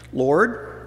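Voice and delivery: Martha pleading. Acted. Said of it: "this is Martha talking".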